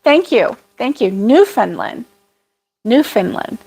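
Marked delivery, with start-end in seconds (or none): 1.1-3.6 "Newfoundland" as NEW-fin-lin; practising Newfinlin. Shown as a demonstration. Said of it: "I need to practice that".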